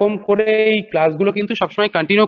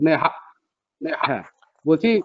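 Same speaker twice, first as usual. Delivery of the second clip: echoing voice; 4 semitones lower than usual. Real, not acted. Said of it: "sir, আপনার ভয়েসটা ইকো হচ্ছে".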